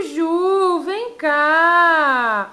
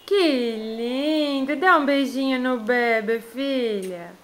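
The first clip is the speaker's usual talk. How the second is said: tender; 4 semitones lower, 3 dB quieter than usual. Real, not acted. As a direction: melt over something cute. Mother tender over photo.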